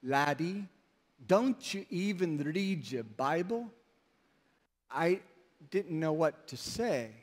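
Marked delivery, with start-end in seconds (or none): 0.0-3.7 softer, lightly imitated Scottish accent; Scottish brogue. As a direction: quietly quote the Scottish doctor in his brogue. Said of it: "brogue or Scottish accent, he said".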